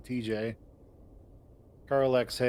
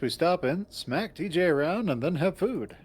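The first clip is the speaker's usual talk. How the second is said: higher, upbeat copy of his words; bright upbeat echo; 6 semitones higher than usual. Acted. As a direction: mirror it back cheerfully. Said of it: "Best case".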